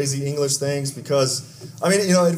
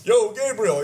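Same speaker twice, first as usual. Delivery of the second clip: casual greeting; 6 semitones higher, slower than usual. Pretend.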